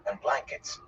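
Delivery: soft, hushed afterthought; gentle. A narrator's reading. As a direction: add it gently and quietly. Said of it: "he said gently".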